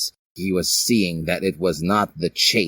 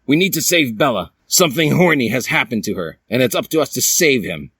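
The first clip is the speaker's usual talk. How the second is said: urgent rallying call; 4 semitones higher, faster than usual. Acted. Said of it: "he said".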